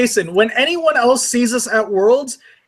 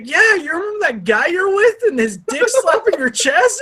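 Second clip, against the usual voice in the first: lightly voiced friend, higher, teasing the morning after; mock the friend's gleeful reminder, pitched up; teasing friend quote; 11 semitones higher than usual. Friend recalls the drunk night, in a lightly higher teasing voice. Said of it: "then be like".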